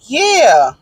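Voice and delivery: mock husband's sarcasm; sarcastic. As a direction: imitate an offended, obvious answer. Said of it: "like, sarcastically".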